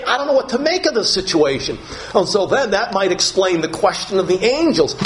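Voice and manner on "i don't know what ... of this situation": mildly higher, sorrowful bewildered voice; a touch of grieving confusion; grieving disciple. Pretend. Disciple unsure what to make of it, mild sorrow. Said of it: "as if to say".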